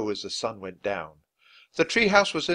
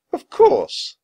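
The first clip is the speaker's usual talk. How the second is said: high squeaky little dog voice saying yes; a tiny dog's sneezed reply, way up high; dog sneeze-voice; 10 dB louder than usual. Acted. The dog Teddy answering the kids, high and squeaky. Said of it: "as if to say".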